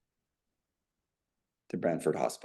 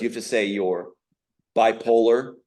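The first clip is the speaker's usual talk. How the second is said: imitating a coldly insistent demand; mock a cold order, stressing each demand; 2 semitones higher than usual. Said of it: "in a very cold voice".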